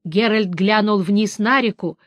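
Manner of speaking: usual speaking voice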